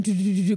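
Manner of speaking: rapid run of "do" as a pounding heart; imitated racing heartbeat. Arriving early for the Elle audition, imitated racing heartbeat. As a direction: patter out a nervous heartbeat. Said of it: "my heart is going".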